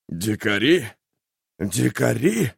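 choking, barking laugh; bitter coughing laugh. Acted. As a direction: laugh through a wet cough. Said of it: "Лающий, давящийся кашель. Наверное, это смех".

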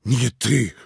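high, loud stunned repeat; astonished high outburst; stunned disbelief. A narrator's reading. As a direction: thrown off balance, demanding. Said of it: "остолбенел Иван".

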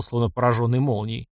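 ordinary delivery

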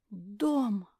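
usual speaking voice

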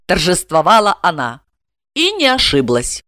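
ordinary delivery, nothing marked

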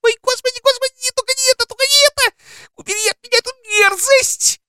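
put-on very high, shrieking girlish squeal; girl shrieking as the larva is held to her lips; piercing squeal. A narrator's reading. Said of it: "пронзительно запищала".

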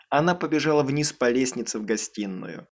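plain reading voice

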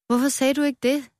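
put-on old strawberry surprised by Rød; surprised gasp. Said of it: "gispede det gamle jordbær overrasket".

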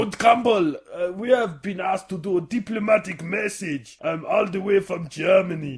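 lightly hammed German accent; mock German host voice; Muppet German accent. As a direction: keep the Rolf-style German going. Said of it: "Rolf from the Muppet Show".

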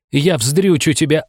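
slow, high, seething threat; raging woman vows revenge, slow and high; furious threat. Acted. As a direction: spit the threat at him slowly. Enraged woman threatens narrator.

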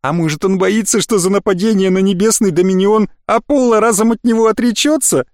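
lightly voiced purring woman; teasing purr to the elf. A narrator's reading. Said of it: "промурлыкала Гондвана".

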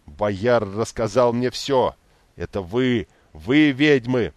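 pompous furious rant, spitting; blustery pompous rage. A narrator's reading. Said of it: "впав в ярость, начал напыщенную речь". (напыщенная яростная речь)

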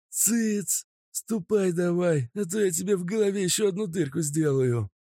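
high, snarling bandit; threatening thug voice. Acted. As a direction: bark orders at the captive. Mazut orders him on.

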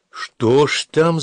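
high, slow, burning with curiosity; eager curiosity. A narrator's reading. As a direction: lean in, dying to know. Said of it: "загорелась любопытная Ада".

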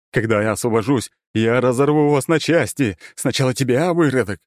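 loud, threatening monster roar; ancient lich voice. Acted. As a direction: promise to tear them apart. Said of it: "орал Корус". (угрожающий рёв древнего лича)

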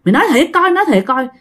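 acted worried scolding; scolding mother. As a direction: raise the pitch as a mother questioning her child. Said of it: "Thím hai mới la".

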